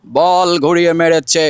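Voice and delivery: slow, measured radio cricket commentary; formal, projected commentator delivery; Chowdhury Jafarullah Sharafat. Shown as a demonstration. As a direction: commentate ball by ball, stretching each phrase. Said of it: "Chowdhury জাফরুল্লাহ শারপাত স্যারের কণ্ঠে যে বাংলাদেশের ধারাভাষ্যকার".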